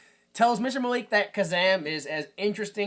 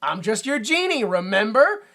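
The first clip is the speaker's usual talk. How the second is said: Kazam; 3 semitones higher, 5 dB louder than usual. Retold or imitated. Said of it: "And Kazam's like".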